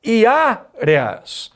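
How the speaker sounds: "áreas" drawn out very slowly, weight on "á"; teacher stretching a word to show stress; slow stress demo. Shown as a demonstration. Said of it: "A tônica é a penúltima".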